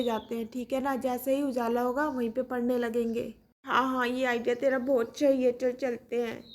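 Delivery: put-on sleepy kids scheming to go to the roof; two small kids. Kids Kiku and Mishti whisper-plan.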